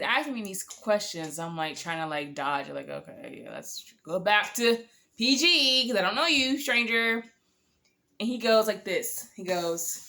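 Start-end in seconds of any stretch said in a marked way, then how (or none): 2.9-7.2 steer him back to safe ground with a grin; playful deflection. Retold or imitated. Dodging his sexual questions.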